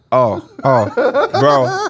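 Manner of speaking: laughing through the words; laughing reaction. Retold or imitated. Retelling Mike's reaction in the car, laughing. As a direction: crack up mid-word.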